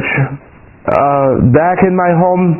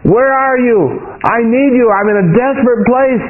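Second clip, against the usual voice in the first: retold plea, pitched higher; higher-pitched reenacted cry for help; 4 semitones higher than usual. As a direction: call up to God, reenacting without shouting. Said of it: "I'm looking up and I'm crying".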